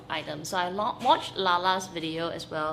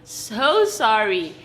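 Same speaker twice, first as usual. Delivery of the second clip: drawn-out apology; much slower than usual. Real, not acted. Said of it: "let me just say it first".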